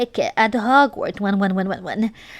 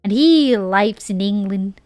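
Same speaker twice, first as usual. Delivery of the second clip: Southern accent. Shown as a demonstration. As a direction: keep the hammed-up Southern accent going through the story. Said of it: "read it with a American Southern accent".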